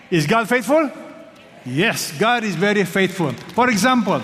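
high, loud rallying preacher; preaching at full force. Acted. Pastor calling the church to answer, loud preaching. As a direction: rouse the congregation to answer.

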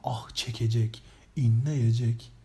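low, drawn-out ad slogan; slow, low mock commercial voice; TV ad announcer. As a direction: stretch each word like a low-voiced advert. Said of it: "Almancı reklamından böyle haz alıyordum".

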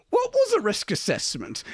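giggling question; laughing. Real, not acted. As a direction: ask through a laugh. Joking about fifties film safety.

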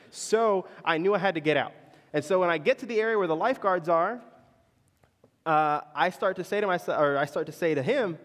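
usual speaking voice

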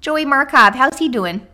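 mock accent asking after little Joey; put-on accent. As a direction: ham up a neighborly gossip accent. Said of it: "You're really good at that accent".

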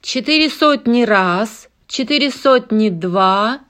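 loud auctioneer chant. Acted. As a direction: call the bids like an auctioneer. Auctioneer calling bids.

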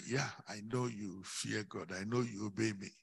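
low, soft acted angel voice; gentle reassurance. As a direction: reassure softly, pitched well down.

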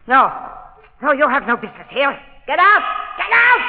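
high, loud, panicked shout; furious shout. Acted. To the invisible Shadow, a furious high shout. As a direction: drive the unseen intruder out. Mistress ordering invisible intruder out.

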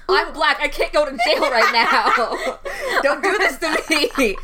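high, loud panicked whine with laughter; mock panicked teen. To his friend about a murder plot, high laughing panic. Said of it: "That's what I would have said in high school".

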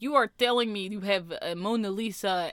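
slow, mock-indignant foreign caller; lightly acted slow outrage; retold angry caller. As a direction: imitate an incredulous caller, word by word. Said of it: "he started yelling at me again".

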